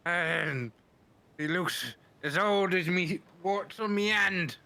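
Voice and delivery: hammy West Country pirate voice; West Country accent. Acted. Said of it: "it is the worst West Country accent I've ever heard".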